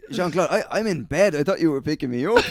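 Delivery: high, pretend-bewildered voice; faking confusion to the boss; mock confused excuse.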